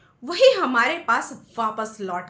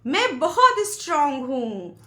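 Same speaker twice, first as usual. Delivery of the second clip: echo; 3 semitones higher, 5 dB louder than usual. A narrator's reading. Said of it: "उधर से आवाज आई".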